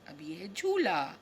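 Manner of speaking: breathy whispered naming, no voice; voiceless whisper. Shown as a demonstration. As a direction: hush it like a secret for the kids. Whispering the picture name.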